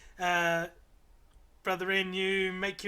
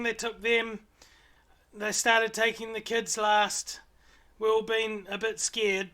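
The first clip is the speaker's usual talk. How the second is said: higher, louder little owlet chatter; 4 semitones higher, 3 dB louder than usual. Acted. Owlet explaining their ruse to the party, higher little creature voice.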